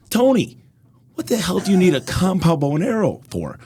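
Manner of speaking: high, loud disbelieving cry; incredulous. Retold or imitated. Comedian to buddy about his bow, high loud disbelief. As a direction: challenge the absurd weapon. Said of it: "I'm like".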